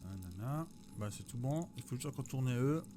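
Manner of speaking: talking round a sweet in the mouth; candy in mouth, a bit muffled; sucking a candy. Real, not acted. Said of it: "j'ai un bonbon dans la bouche".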